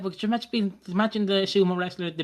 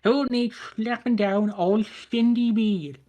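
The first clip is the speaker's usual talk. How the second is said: slow, grand announcer voice; host a mock award reveal; dramatic announcer; 4 semitones higher than usual.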